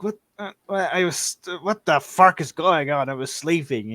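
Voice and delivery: just-woken bewilderment, blurted out; confused, startled out of sleep. Acted. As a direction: play a groggy, baffled cleric stumbling over his words. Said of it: "and he's very confused".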